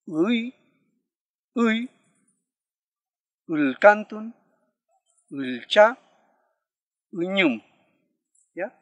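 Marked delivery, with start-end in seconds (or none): 0.1-7.6 Uy, uy, ulcantun, ulcha, uñum spaced out, each starting on the sixth vowel; slow word list for imitation: Uy, uy, ulcantun, ulcha, uñum; word-initial sixth vowel. Shown as a demonstration. Teacher repeats for learners to copy, careful model of Uy, uy, ulcantun, ulcha, uñum. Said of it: "Vamos a volver a repetir".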